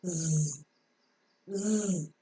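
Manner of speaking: "Z" as a soft buzzing "zzz"; soft voiced hiss-buzz "zzz" for each "Z"; voiced audible friction. Shown as a demonstration. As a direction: let the vocal cords vibrate through "Z", no vowel. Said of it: "voiced sound is pronounced with an audible friction".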